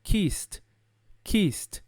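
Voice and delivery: KISSED as one syllable ending in T. Shown as a demonstration. Teacher modelling KISSED, one syllable with a T sound. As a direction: finish KISSED on a crisp voiceless T. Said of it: "Som de T".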